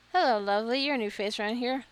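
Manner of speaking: welcoming a new face to the inn, a hint of a bubbly hostess; cheery innkeeper. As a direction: greet the newcomer like a bubbly barmaid. Reads innkeeper Marigold's greeting.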